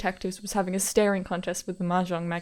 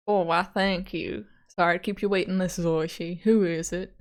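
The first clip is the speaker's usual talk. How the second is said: lightly voiced genial detective. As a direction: play an easygoing detective, stretching the words. Voices detective Oishi taking call.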